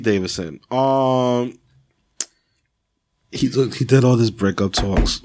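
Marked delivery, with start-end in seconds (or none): 3.3-5.2 hoarse, fading voice; losing voice. Real, not acted. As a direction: voice giving out, strained. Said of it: "I'm losing my voice".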